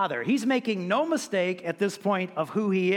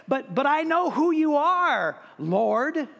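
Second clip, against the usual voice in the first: higher-pitched, stammered protest; pleading objection; 7 semitones higher, 4 dB louder, slower than usual. Acted. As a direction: protest as if wrongly turned away. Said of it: "I can imagine some of their objections".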